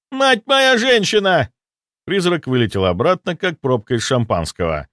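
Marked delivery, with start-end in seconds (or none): 0.1-1.5 very high, slow frightened howl; terrified wail. Acted. Ghost soldier fleeing the dead army, high terrified wail. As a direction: scream out in panic. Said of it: "раздался вопль".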